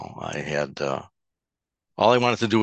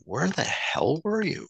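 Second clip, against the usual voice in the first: slow, much higher demanding boss voice; angry boss; 12 semitones higher, slower than usual. Retold or imitated. Boss grilling him across the desk, slow and high. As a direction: lean on each word like a fed-up boss.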